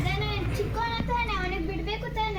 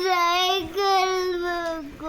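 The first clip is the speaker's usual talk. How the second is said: real crying; 5 dB louder, much slower than usual. Real, not acted. Child crying over the bicycle.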